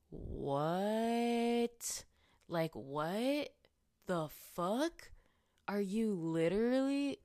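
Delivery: can't believe what she's hearing; outraged disbelief. Retold or imitated. Woman reacting to the cop's excuse, loud outraged disbelief.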